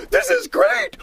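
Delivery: very high gleeful cackle; maniacal laughing. Acted. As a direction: cackle like a power-mad trickster. Coyote power crazy.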